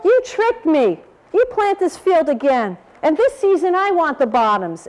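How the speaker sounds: a hint of an indignant storybook bear; bear talking. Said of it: "This is the bear s-, talking".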